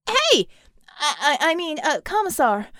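high, loud flustered yelp; startled driver. A narrator's reading. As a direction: yelp and stammer in alarm. Driver startled as car swerves.

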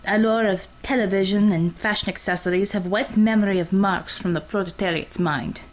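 a lightly voiced Russian woman, blunt and cocky; a light Russian accent, teasing the nervous driver; Russian commissar voice. Russian commissar teasing her driver, in a light Russian accent. Red Savior on class disparity.

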